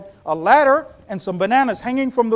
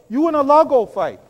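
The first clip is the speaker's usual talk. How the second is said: louder taunt telling Musa to fight alone; mock defiant retort; 2 semitones higher, 5 dB louder than usual. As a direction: fling the words back at the prophet. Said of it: "They told Musa".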